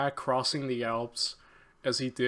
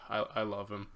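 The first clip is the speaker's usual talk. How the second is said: soft, sighing admission, low in volume; hushed fondness; 3 semitones lower, 7 dB quieter, faster than usual. Real, not acted. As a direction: sigh it out very softly. Sighing fan admits love for Hannibal.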